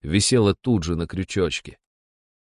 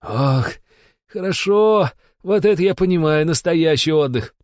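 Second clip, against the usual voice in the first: blissful groaning; 7 semitones higher than usual. A narrator's reading. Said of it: "блаженно стонал".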